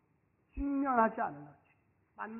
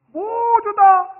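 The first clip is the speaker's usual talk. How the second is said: 모두 다 drawn out very slowly, loud and high; emphatic slow; 8 semitones higher, 12 dB louder, much slower than usual. Real, not acted. Preacher stressing that Jesus gave everything, slow and loud. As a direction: lean hard on 모두 다.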